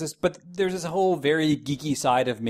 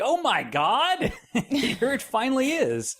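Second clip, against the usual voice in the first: mock world's excitement; 12 semitones higher, slower than usual. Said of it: "the entire world would be like".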